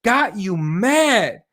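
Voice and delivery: high-pitched, drawn-out disbelief; mock him in stretched-out, incredulous questions; incredulous mocking retort. Acted mocking reply to Snowden.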